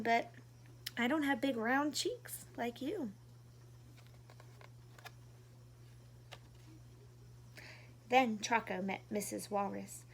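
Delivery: gentle storybook reading voice; reading to children. A narrator's reading. Reading a picture book to young viewers, gently. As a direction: read it warmly like to little kids.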